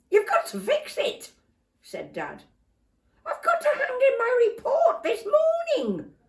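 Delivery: very high, loud urgent pleading; desperate plea. Acted. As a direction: beg for the fix now. Dad desperate.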